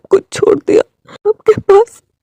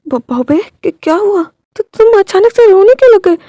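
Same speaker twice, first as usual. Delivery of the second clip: worried; 4 semitones higher than usual. Acted. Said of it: "वो रोने लगा था".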